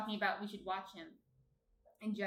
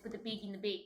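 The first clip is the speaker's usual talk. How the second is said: put-on Canadian accent; faster than usual. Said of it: "imitating a Canadian accent".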